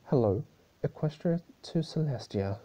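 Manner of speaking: loud, high teasing call; a high, loud, mocking "hello"; Discord calling out. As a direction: snap her out of a daze, sing-song.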